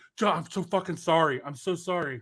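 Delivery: put-on whisper, apologetic in tone. Acting out a figure apologizing through a wall to John: acting out a whispered apology. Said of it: "whispering from the other side of the wall".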